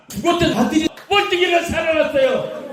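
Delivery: a preacher's rising, joyful cry; excited shout. Acted. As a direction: shout the miracle out to the congregation. Preacher tells the miracle.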